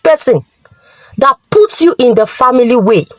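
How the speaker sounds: stern, mildly angry rebuke; understated fatherly anger. Acted. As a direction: order the daughter coldly. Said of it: "he said angrily".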